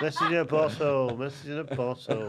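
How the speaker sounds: loud chanted call; shouting. Retold or imitated. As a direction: call it out loud across the water. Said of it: "Bloody effort in".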